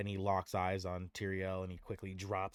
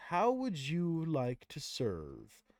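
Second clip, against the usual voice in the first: Tyrael offering; 4 semitones higher, 5 dB louder, much slower than usual. Acted. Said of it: "And Tyrael says".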